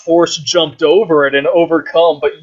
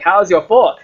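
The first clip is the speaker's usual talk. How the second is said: mock Asian accent; 4 semitones higher than usual. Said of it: "With his fucking little Asian accent".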